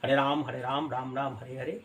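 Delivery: softly murmured Hare Krishna chant, fast; quiet rapid murmur of the mantra; murmured japa. Shown as a demonstration. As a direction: chant the mantra under your breath as if telling beads. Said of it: "আমি যখন মনে মনে জপছি".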